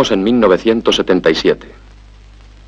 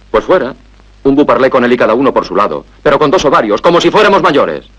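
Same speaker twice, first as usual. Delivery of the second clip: tono cada vez más agudo; anímala con ímpetu creciente; arenga exaltada; 5 semitones higher than usual. Acted. Arenga a Rosy a separarse. (arenga que va subiendo)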